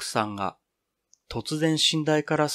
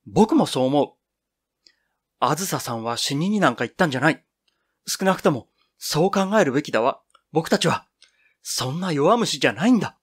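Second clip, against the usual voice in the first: louder, eager shout; loud cry; 3 semitones higher, 3 dB louder than usual. Acted. Boy cries out his belief that Azusa lives, eager loud shout. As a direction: call it out with shining eyes. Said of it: "大きな声で叫んだ".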